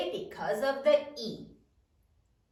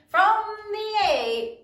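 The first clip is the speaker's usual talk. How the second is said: choral recitation; 2 semitones higher than usual. Shown as a demonstration. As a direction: lead everyone through the rule together. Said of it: "Again, say it with me".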